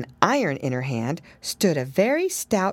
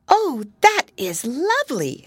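put-on little girl; 8 semitones higher, 4 dB louder than usual. A narrator's reading. Lucy voiced in story.

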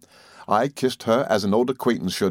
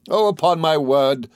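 high, gleeful exclamation; tickled, pitched up; greatly delighted; 7 semitones higher, 3 dB louder than usual. A narrator's reading. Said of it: "greatly delighted".

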